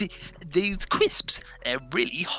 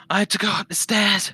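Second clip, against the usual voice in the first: mock whine; 7 semitones higher, 4 dB louder than usual. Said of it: "He was like".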